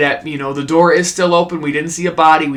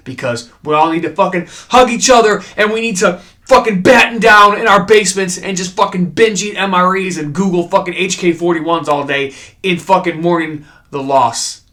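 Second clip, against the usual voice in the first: louder, fired-up mock rant; 3 semitones higher, 4 dB louder than usual. Real, not acted. Fan urging viewers to mourn Burt, fired-up rant. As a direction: rant it, hamming up grief.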